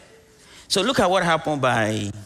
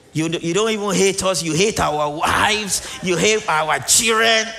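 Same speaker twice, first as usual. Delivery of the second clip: indignant accusing shout, rising higher; mock shout; 6 semitones higher, 5 dB louder than usual. Preacher voicing the angry Israelites, shouting accusation. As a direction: hurl the blame at Moses like an angry crowd.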